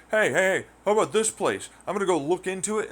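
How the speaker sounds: high, loud, bouncy; hammed-up eager tourist; mock eagerness. Visitor keen to explore the bad place, mock eager.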